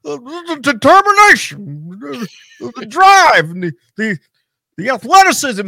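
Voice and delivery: high, halting, stuttered mock commentary; mocking Jim Ross stammering. Mocking Jim Ross stammering through commentary, high pitched. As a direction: stammer out each word like a lost announcer. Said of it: "he paused and he said".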